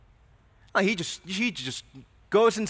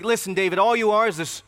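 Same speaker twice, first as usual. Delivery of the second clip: mocking older brother; 4 semitones higher, 6 dB louder than usual. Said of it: "He's, he's like".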